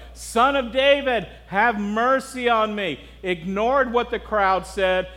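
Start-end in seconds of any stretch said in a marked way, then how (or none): 0.1-3.0 raised, drawn-out retold plea; mock yelling. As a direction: imitate calling out slowly and insistently. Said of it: "he just kept yelling".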